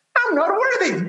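squeaky, cartoon-like voice. Demonstrating a coping trick to listeners, in a Mickey Mouse voice. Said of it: "put a Mickey Mouse voice on whatever it says".

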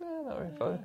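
very high, noncommittal, ambivalent, take-it-or-leave-it tone. Acting out refusing a plastic bag: acting ambivalent. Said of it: "And you just go".

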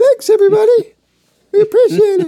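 squeaky, very high, very loud puppet voice. Told to thank supporters in his own way, he switches to his puppet voice. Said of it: "I'm going to use my puppet voice".

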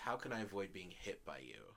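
calm, reasonable, plainly spoken voice. Acting out a hypothetical question to someone who hits their partner, in a mock-calm voice. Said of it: "in a calm voice".

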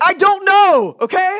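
very loud, very slow, high, drawn-out, fed-up yell. Acting out a college student asked about plans after graduating: mock yelling. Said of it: "I didn't mean to yell".

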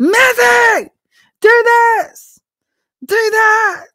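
very high, very slow, loud drawn-out yelling. Speaker retells how God spoke to him when younger: imitating God yelling. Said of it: "God was yelling at me".

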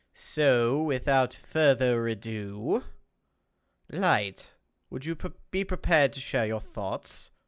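put-on British accent, clearly villainous. Host handing the turn to a co-host, in a put-on british accent. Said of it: "I don't know why I went British there".

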